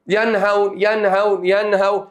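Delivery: ينهون with the nun sounded clearly, no nasal hum; teacher pronouncing ينهون with a plain clear nun; clear nun demo. Shown as a demonstration. Teacher demonstrating for students ينهون with the nun clearly sounded. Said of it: "هتلاحظ كده في ينهون".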